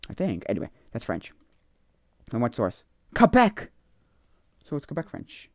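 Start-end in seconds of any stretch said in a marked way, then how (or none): 3.1-3.7 louder and much higher, blurting it out; excited exclamation. Real, not acted. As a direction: shout the answer like you just got it. Answering the source question.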